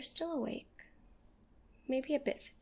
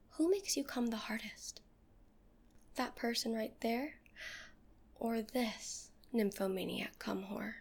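teasing whisper. Acted. Seductive whispered audio.

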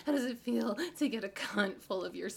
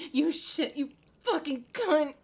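louder snarling insult; louder, angry outburst; 2 semitones higher, 5 dB louder than usual. Acted. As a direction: spit the insult out.

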